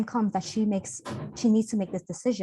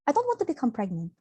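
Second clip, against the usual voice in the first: put-on Filipino accent; 5 semitones higher, faster than usual. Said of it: "I always have to do this Filipino accent".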